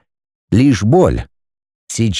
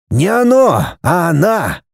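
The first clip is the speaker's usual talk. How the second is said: lightly voiced old man, higher and slow; a hint of a mystic old man explaining; old Kofler's voice; 5 semitones higher, slower than usual. Kofler corrects Michael.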